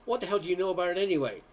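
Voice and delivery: quick, sharp comeback; an annoyed young man snapping back fast; snapped back. Acted. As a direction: bite back at the mocker. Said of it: "snapped back".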